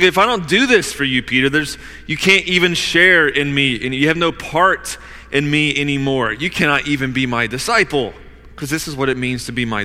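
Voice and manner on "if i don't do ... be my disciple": extremely firm. Acted. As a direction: press the disciple firmly. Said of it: "Jesus is speaking extremely firmly with Peter".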